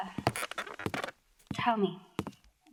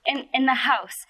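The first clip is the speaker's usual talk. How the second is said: nervous laugh; 5 semitones higher, 9 dB louder than usual. Acted. Suspect laughs nervously when accused.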